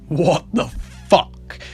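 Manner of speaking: drawn-out stunned disbelief, punching the last word; retold astonishment. Reacting to the bike boosting into the bush, astonished. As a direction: act out being astonished. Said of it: "so fucking astonished".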